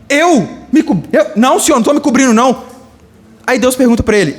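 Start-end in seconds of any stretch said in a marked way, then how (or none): 0.1-2.6 high stammered denial, then quicker; flustered Adam. Acted. Adam caught covering himself by God, flustered high denial. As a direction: stumble on a high pitch, then rush the denial.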